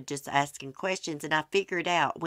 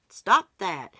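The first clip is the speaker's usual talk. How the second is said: hollered; 4 semitones higher, 6 dB louder than usual. Retold or imitated. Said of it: "I hollered out at him".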